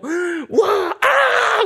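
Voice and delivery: very high, loud whooping Tarzan cry; excited Tarzan yell. Retold or imitated. Boy swinging on the bell rope, gleeful high Tarzan yell. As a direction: yell like a thrilled five-year-old swinging on a rope. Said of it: "너무 흥분해가지고".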